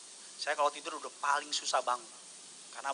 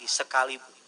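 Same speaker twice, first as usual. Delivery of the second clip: "Sekalipun" said again, much louder and fuller; louder repeat; 5 dB louder than usual. Shown as a demonstration. Pastor urging the congregation to say it louder. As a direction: raise it, bigger this time. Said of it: "Lebih besar lagi".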